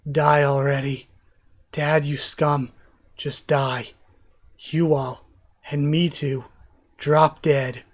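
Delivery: lightly acted, low-pitched bitterness; bitter dying curse. Toya cursing his dad and family, subdued bitterness.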